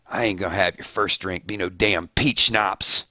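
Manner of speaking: a touch of a rough redneck hunter; Daryl voice. Acted. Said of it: "That's my Daryl voice".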